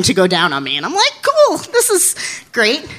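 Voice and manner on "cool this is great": mock enthusiasm. Self-quote reacting to volunteers.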